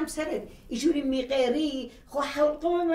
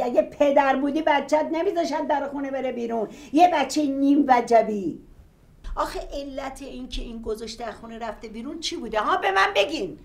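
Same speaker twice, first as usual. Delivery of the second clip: angry; 2 semitones lower, 6 dB louder than usual. Acted. Angry quarrel between parents.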